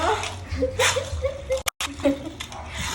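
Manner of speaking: long, high-pitched giggling; high laughter. Real, not acted. Amused by the child.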